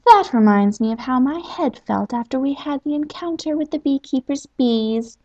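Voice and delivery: the chatty djinn launching into another story. Acted.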